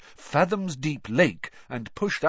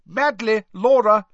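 calling out name; 12 semitones higher, 10 dB louder than usual. Acted. Name called out.

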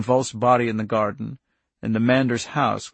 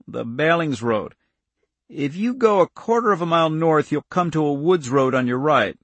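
slightly raised, folksy emphatic directions; instructive countryman; 4 semitones higher, 4 dB louder than usual. Acted. Irv maps the escape road for Andy, instructive. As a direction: explain the route point by point.

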